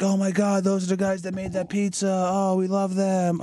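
high, gushing fangirl voice; imagined fan squeal. Pretend. Imagined Australian fans gushing over the pizza guys, high squealing.

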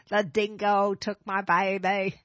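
slow Australian accent, lines stretched; drawn-out Australian accent on demand. Shown as a demonstration. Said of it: "let me hear your Australian accent".

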